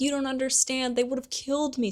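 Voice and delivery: high-pitched, desperate-sounding plea; pleading Pettigrew. Retold or imitated. Traitor excuses himself to Sirius, pleading.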